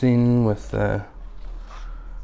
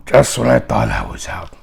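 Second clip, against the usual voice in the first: whispered quote; 2 semitones higher than usual. Retold or imitated. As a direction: hiss the last words. Quoting Godfather III line.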